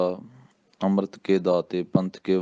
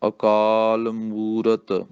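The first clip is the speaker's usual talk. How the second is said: slow, clear recitation for pupils; ਹੌਲੀ ਪਾਠ; much slower than usual. Shown as a demonstration. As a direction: recite word by word slowly. Teacher reciting line slowly.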